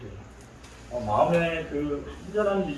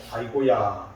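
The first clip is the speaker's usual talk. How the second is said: lower-pitched Gyeongsang mother's lament; Gyeongsang accent; 5 semitones lower, slower than usual. Retold or imitated. Mother greets her drunken son, Gyeongsang dialect lament. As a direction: imitate a Gyeongsang mother's sigh of dismay. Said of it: "이게 경상도 사람이거든요".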